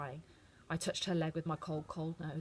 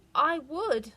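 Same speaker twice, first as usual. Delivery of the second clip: wobbling voice; 9 semitones higher, 8 dB louder than usual. A narrator's reading. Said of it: "the wobble in her voice".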